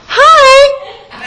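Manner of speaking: very high mock-cheery hi; big-smile greeting. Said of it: "Big smile".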